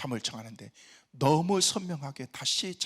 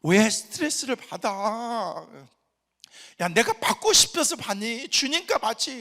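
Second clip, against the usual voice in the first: lightly acted exchange; 6 semitones higher, 10 dB louder, slower than usual. Retold father-daughter exchange.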